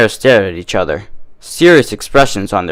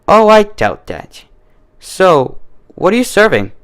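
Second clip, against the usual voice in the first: Carrot Top voice; 9 semitones higher than usual. A narrator's reading. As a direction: brush off the warning in a high, cocky voice.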